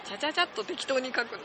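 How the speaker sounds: quick and careless. Shown as a demonstration.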